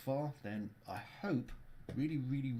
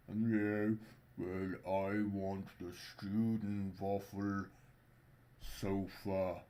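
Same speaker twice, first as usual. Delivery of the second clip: put-on slow Scandinavian accent; much slower than usual. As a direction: drawl it in a Swedish lilt. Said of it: "that's why I'm doing the Scandinavian accent".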